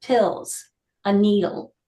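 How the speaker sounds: measured poem recital, pausing after each phrase; deliberate poet's delivery with falling line ends; poetry reading. Acted. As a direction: read it as verse, weighting each image. Reads own poem to the group.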